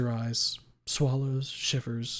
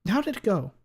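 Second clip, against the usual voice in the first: higher, louder lawyer question; 9 semitones higher, 5 dB louder than usual. Acted. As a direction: ask it like a sharp attorney.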